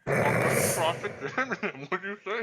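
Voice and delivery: words garbled round food; mouth full. Real, not acted. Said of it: "you're eating with your mouth full".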